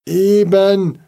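high, loud despairing cry; desperate call. A narrator's reading. Worried father calling up, desperate. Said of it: "rief Herr Frischauf verzweifelt".

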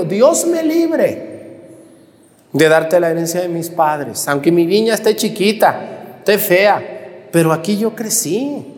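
slow, high, emphatic refusal; Nabot's firm refusal. Acted. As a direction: draw out "Dios me libre" high and slow. Repite la respuesta de Nabot. (negativa solemne de Nabot)

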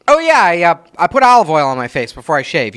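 imitating a breezy offhand remark; casual imitation. Mocking cohost's casual shaving tip. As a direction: toss it off like it's nothing. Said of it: "you were like".

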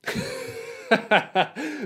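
high burst of laughter. Real, not acted. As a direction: laugh at your own joke. Laughs at own joke.

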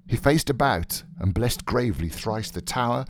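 ordinary delivery

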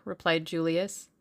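plain reading voice

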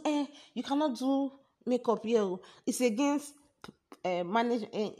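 mock the attendant's high, loud objection; imitated shouting. Girl forbidding makeup by management rule, imitated high shouting. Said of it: "she's shouting".

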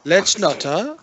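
high, slow hammy Aussie drawl; Australian accent. Acted. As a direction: play up a cartoon Australian. Mock Australian film character.

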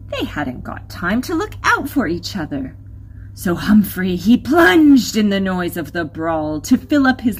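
lilting rhyming storyteller with lively swings; story narration. Acted. Narrator tells listeners of Humphrey's wanderings, lively storytelling.

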